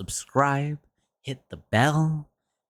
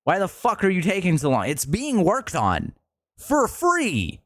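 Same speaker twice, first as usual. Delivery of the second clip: impatient demand; 7 semitones higher than usual. Retold or imitated. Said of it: "and you go".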